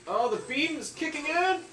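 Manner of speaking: high, loud, thrilled cry; excited shouting. Real, not acted. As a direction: shout it as the attack hits. Beam attack in game.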